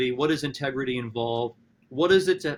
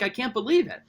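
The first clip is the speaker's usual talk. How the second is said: high-pitched mock amazement; incredulous Joker; 8 semitones higher than usual. Professor retelling the rescued villain's reaction, high incredulous exclamation. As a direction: play the villain stunned at being spared. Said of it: "And the Joker's incredulous".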